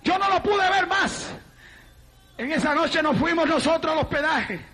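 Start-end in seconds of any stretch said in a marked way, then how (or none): 0.0-1.3 raised, impassioned preacher voice; preaching. Real, not acted. Preacher testifying to the congregation, preaching. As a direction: preach it out higher, holding the end.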